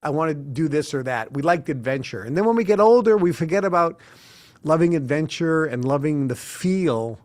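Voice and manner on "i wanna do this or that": eager. Retold or imitated. Kids wanting to be scared.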